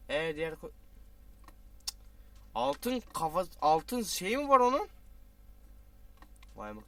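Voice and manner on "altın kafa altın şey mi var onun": higher and louder, drawn out; eager curiosity; excited, wondering. Real, not acted. Gamer spotting a golden item, excited.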